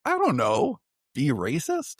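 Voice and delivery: high, tossed-off joking retort; flippant quip. Retold or imitated. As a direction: toss it off like a smart-aleck dad. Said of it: "I said".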